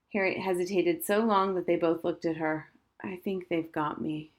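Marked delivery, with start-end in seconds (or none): 3.0-4.3 soft, understated sadness; a quiet, defeated admission; sad. Acted. Girl confessing bad news to her friends, softly sad. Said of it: "she said sadly".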